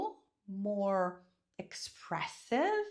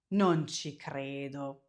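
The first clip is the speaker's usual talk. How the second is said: disbelief; 7 semitones lower, slower than usual. Shown as a demonstration. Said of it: "I cannot believe that".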